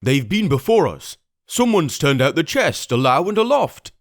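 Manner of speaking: pirate voice. Acted. Pirate at window tells the blind man, rough. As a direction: report the empty chest hurriedly.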